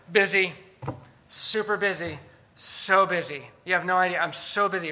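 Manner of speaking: mock self-important boast of being busy; self-important busyness. Dallas worker answering how he is doing, mock self-important. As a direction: play up being terribly overworked.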